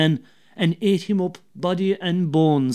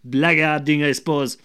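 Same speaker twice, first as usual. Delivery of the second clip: a raised, scolding call into the dark; shouting; 5 dB louder than usual. Acted. Wife shouting at her late husband arriving in the dark. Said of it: "And she shouted out".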